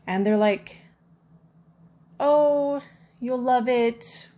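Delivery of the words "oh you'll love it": mocking rep voice. Company rep brushing off complaint.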